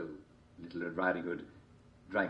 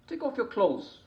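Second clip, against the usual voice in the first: high wolf voice; 4 dB louder than usual. A narrator's reading.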